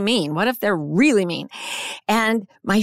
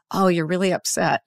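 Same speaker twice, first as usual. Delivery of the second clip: calm reflecting; 2 semitones lower than usual. Shown as a demonstration. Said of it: "you say it in a low voice, a soft voice".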